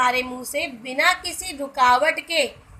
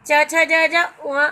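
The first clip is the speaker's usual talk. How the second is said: each letter sounded out slowly and separately; slow letter recital; 5 dB louder, much slower than usual. Shown as a demonstration. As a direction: count the letters off slowly, one by one. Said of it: "क ख ग घ ण जो है". (अक्षरों को धीरे-धीरे अलग-अलग बोलना)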